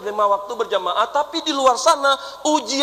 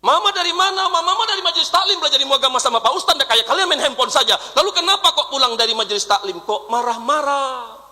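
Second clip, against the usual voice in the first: higher, fast laughing mother voice; mock mother boast; 4 semitones higher than usual. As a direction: play the bragging mother, rushed.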